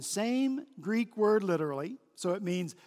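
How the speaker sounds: ordinary talk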